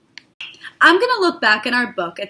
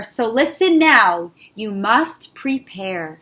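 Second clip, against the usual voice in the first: solemn warning; 2 semitones lower than usual. Acted. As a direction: warn them gravely, slowing down.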